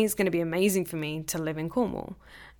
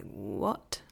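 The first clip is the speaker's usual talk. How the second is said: surprised what; 9 semitones lower, 5 dB quieter than usual. Retold or imitated. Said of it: "I was like".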